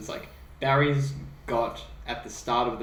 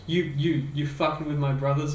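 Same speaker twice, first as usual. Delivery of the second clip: mad, retold; 4 semitones higher, 4 dB louder than usual. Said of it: "he gets mad at Adam".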